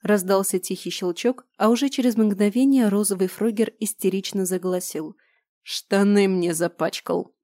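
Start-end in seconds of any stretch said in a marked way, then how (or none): 5.6-7.4 grumbling. Acted. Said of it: "ворчливо произнёс Гарс".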